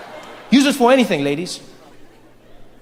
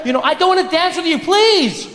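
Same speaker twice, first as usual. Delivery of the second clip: higher, pleading refusal; pleading woman; 9 semitones higher than usual. Acted. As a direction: beg him to leave her alone.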